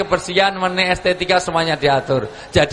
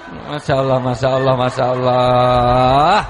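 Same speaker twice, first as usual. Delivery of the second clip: amused at the crowd's mistake; laughing exclamation; 7 semitones lower than usual. Real, not acted. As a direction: stretch it out in laughing disbelief.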